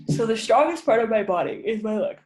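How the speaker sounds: speaking through a yawn. Real, not acted. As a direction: let a yawn stretch the words. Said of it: "sorry, I'm yawning".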